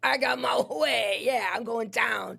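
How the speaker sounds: slow, drawn-out triumphant boast; imitating her crowing over a win; mock gloating. Woman gloats being taken to booking.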